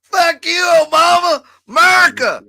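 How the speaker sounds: hollered like a mock redneck. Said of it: "That's my redneck voice".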